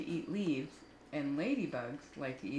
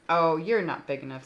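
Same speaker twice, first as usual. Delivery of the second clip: loud boast; 9 dB louder than usual. Acted. Grouchy ladybug boasting.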